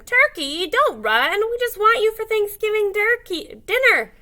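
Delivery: high and loud calling after him; eager calling moose. A narrator's reading. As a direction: chase him with cheerful calls. Moose chasing turkey.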